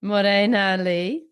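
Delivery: croaky voice with a chest cold; blocked nose, wheezy and croaky. Real, not acted. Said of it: "wheezy voice in this episode".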